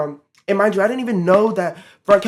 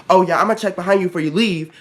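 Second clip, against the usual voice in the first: quick, louder imitation of her; imitated coworker warning; 5 dB louder, faster than usual. Coworker warning a teen before leaving, imitated quick warning. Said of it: "She said it kinda like that".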